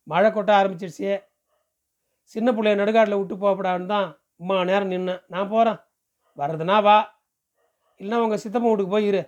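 a touch of hurry and exasperation; lightly voiced village man, impatient. Man says he is leaving as rain pours, mildly impatient. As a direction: hand her an ultimatum, lightly in character.

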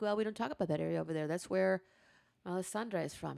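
hushed mock secrecy. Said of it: "I'm like".

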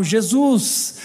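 a hint of a pious praying sister; mocking prayer. Sister prays about a muscled brother, lightly mocking. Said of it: "Tem irmão que vem embalado a vácuo".

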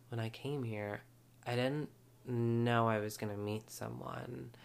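put-on a soft take on a young heiress; Paris Hilton voice. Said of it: "put on my Paris voice a little bit".

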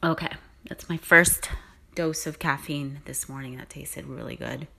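talking between sips of coffee; while sipping a drink. Real, not acted. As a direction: speak right after sipping coffee. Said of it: "Let me take a sip".

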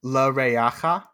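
"Le re'acha" slow and separated; staccato. Shown as a demonstration. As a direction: model "Le re'acha" syllable by syllable. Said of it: "We'll do one word at a time".

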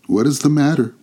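high, lightly voiced spirit; spirit's question. A narrator's reading. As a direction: ask as a gently curious ghost. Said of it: "asked the spirit".

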